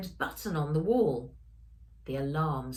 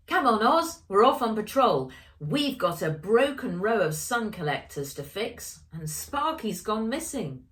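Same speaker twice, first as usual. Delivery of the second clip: eager call; 5 semitones higher, 5 dB louder than usual. Acted. Ella calls out, eager.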